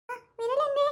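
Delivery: eerie high ghost asking; spooky ghost voice. Acted. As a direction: creep out the girl with a ghostly question. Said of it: "ചോദിക്ക്".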